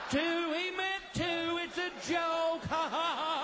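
high, drawn-out nervous shout with forced laugh; panicked reassurance. Acted. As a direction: hastily explain the joke in a high strained voice. Dad hastily calms panicking son.

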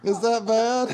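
high squealing laugh. Real, not acted. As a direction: laugh it out, grossed out. Reacting to gross jelly bean.

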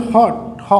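"হট", then its first sound "হ" alone; pronunciation demo. Shown as a demonstration. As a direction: sound out "হট" and isolate the h in "হ". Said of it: "উচ্চারণ হচ্ছে". ("হট" বলে প্রথম ধ্বনি "হ" আলাদা উচ্চারণ)

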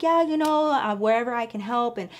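a flustered excuse to the angry boss; nervous babbling. Retold or imitated. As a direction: babble to cover your nerves. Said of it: "So I start babbling".

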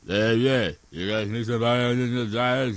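mumbly tough-guy Stallone; light Stallone mumble; Stallone impression.

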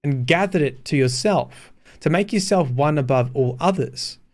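steady measured read-aloud of game text; story narration. A narrator's reading. Streamer reading the wolf's words to chat, in narration voice. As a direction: read the dream scene like a storybook.

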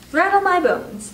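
high, loud and drawn-out spooky parrot. A narrator's reading. Parrot imitating a spooky voice, high and slow. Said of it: "wonderful imitation of his spooky voice".

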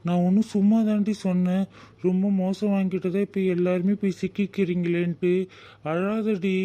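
comforting a sister who is crying. Acted. Brother soothes crying sister.

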